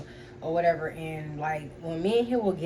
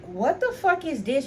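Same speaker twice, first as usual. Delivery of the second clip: slow, higher-pitched mock outrage; retold anger; 6 semitones higher, slower than usual. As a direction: replay your indignant reaction, stretched out. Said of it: "that's how mad I was".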